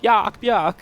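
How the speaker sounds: barked out high and loud like a dog; posh dog bark. Shown as a demonstration. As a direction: yap it like a posh little dog. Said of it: "sound like a very posh dog".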